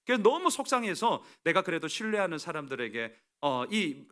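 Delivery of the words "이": normal talking voice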